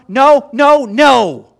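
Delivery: loud, hammered string of noes; forceful preacher's shouted rejection; emphatic refusal. Real, not acted. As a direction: shout each no as an absolute denial. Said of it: "This is the most emphatic phrase".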